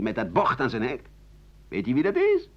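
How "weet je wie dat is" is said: higher, conspiratorial gossip voice; a nosy local sharing a secret; gossiping neighbour. Retold or imitated. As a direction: lean in like a neighbour spreading rumours. Neighbours gossip about him.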